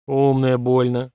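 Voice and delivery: slow, abashed grumble; embarrassed grumble. Acted. Colonel grumbles, embarrassed by his clever daughter. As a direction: grumble it, not knowing what to say. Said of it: "смущённо проворчал полковник".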